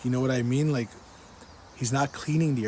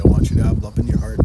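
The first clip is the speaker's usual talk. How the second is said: louder again, rushed and pressing; loud fast repeat; 2 semitones lower, 11 dB louder, faster than usual. Retold or imitated. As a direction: hammer the message home, quickly. Repeating God's message, louder still.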